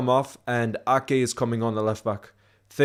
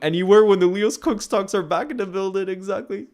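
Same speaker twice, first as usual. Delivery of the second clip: mock hype announcer; 8 semitones higher, 4 dB louder than usual. Mocking podcast's return.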